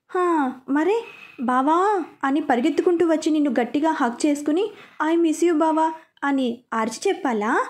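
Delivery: lightly mocking, a touch sarcastic. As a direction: tease him with mild sarcasm. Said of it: "అని వ్యంగ్యంగా అడిగింది". (కొంచెం వ్యంగ్యంగా)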